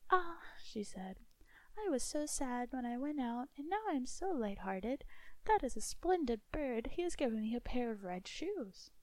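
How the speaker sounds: put-on joyful girl. Girl joyful with red shoes.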